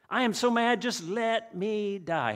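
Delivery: high loud outburst, then a slow drawn-out end; angry sulk. Acted. Preacher voicing Jonah's tantrum at God, high then slow. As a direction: burst out mad, then drag out let me die.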